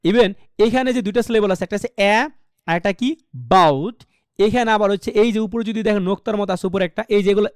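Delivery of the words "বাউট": বাউট pushed out low and firm; stressed syllable demo. Shown as a demonstration. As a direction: put the weight on বাউট as the strong syllable. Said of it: "এই সিলেবলটা জোরে পড়তে হবে". (বাউট, জোর দিয়ে)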